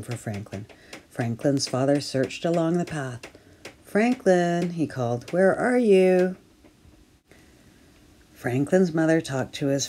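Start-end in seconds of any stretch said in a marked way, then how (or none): 3.8-4.7 high, loud call of a name. Acted. Father calling for lost son. 5.3-6.4 high, loud, slow searching call. Acted. Father calling for lost son.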